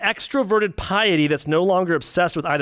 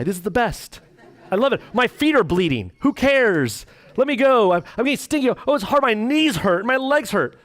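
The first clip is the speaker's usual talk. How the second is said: higher, cheerful despite the pain; mock happy runner; 6 semitones higher than usual. Preacher playing a runner who loves the pain, higher and gleeful. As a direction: grin through every complaint like a runner on a high.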